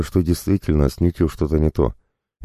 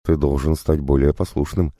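plain reading voice

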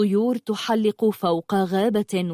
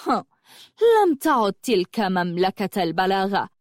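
arrogant. Acted. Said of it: "وقالت بخيلاء".

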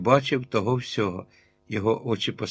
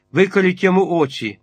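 loud, much higher raging yell; furious shout; 7 semitones higher, 5 dB louder than usual. A narrator's reading. Captain screams at the mob to blind the giant. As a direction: scream the cruel order. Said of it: "закричав сотник".

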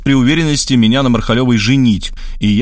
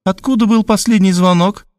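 stern Markhaleva; 8 semitones higher than usual. A narrator's reading. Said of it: "строго спросила".

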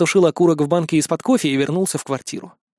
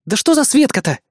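резкий выкрик, выше голос; рявкнуть от раздражения, громче и выше; рыкнула; 8 semitones higher than usual. A narrator's reading. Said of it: "рыкнула Инна". (сердито рыкнуть, высоко и отрывисто)

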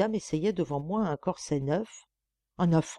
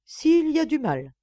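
higher, louder suspicious comeback; wary retort; 10 semitones higher, 6 dB louder than usual. A narrator's reading. Wife wary of husband's sweet talk, suspicious retort. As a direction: snap back, still distrustful. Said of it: "encore méfiante, répliqua".

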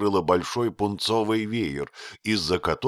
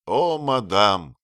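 с горечью; 5 dB louder, slower than usual. Acted. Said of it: "сказал он с горечью".

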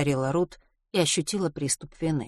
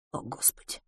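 tearful; 14 dB quieter than usual. A narrator's reading. Tearful mother wiping away tears.

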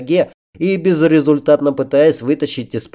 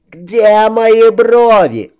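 cartoon princess; 10 semitones higher, 6 dB louder, much slower than usual. A narrator's reading. Princess keeps wailing.

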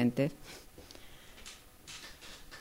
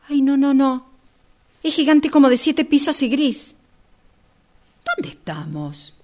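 much higher and louder, near a shriek of panic; panicked outburst; 8 semitones higher, 8 dB louder than usual. Acted. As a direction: lose it completely, the words spilling out in alarm. Panics, lost on a dark road. (pánico, mucho más aguda y fuerte)

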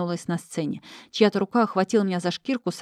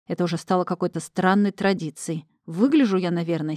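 ordinary delivery, nothing marked

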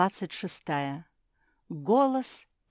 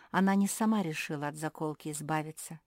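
ordinary delivery, nothing marked

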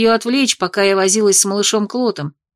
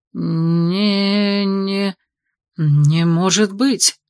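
breathless disbelief; much slower than usual. A narrator's reading. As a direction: exhale it in awe. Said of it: "смог выдохнуть Ланиэль".

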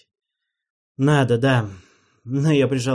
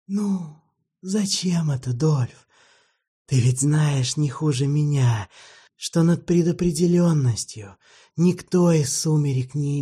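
put-on weary old vampire; 5 semitones higher than usual. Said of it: "Оскар вздохнул".

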